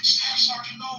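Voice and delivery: loud, high cry of alarm; panicked yell. Retold or imitated. Sergeant sees red splatter, yells to his staff sergeant in panic. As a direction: shout it like your friend's just been hit. Sergeant thinks he's been hit.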